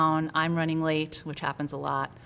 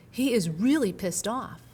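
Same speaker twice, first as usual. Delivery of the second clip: angry; 4 semitones higher, slower than usual. Retold or imitated. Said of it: "he's not joking".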